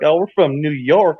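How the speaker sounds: lightly put-on southern drawl, slow; southern accent. New Yorker fooling locals on a trip, imitated southern accent. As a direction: answer slowly in a mock southern accent. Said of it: "them with a southern accent".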